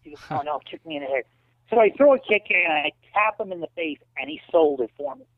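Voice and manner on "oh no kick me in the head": soft, urgent aside between fighters; hushed insistence. Retold or imitated. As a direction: press the point quietly without the crowd hearing. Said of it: "We don't see our mouths move".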